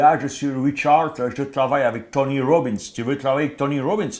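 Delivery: put-on French spoken with heavy English accent. Retelling a phone call from an Englishman: strong English accent speaking French. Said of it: "qui parlait français avec un putain d'accent, euh, anglais".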